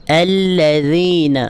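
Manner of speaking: الذین slow with a gentle dh; soft dh again. Shown as a demonstration. Teacher repeating the correct reading for students. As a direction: stretch الذین softly through the ذ. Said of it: "اس طریقے سے پڑھیں گے".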